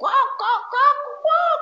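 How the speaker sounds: very high, shrill, ringing, roaring devil guffaw. Contrasting the prophets' silent smile with the devil's laugh, speaker imitates a devil's guffaw.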